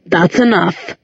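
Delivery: almost languid, with fierceness underneath; understated, hungry threat of violence; languid menace. A narrator's reading. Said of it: "Valentine's tone was almost languid".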